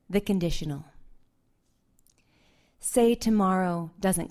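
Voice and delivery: measured, unhurried poetry reading; poem reading. Acted. Poet reading her poem to the audience, measured and unhurried. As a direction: read each image slowly to the room.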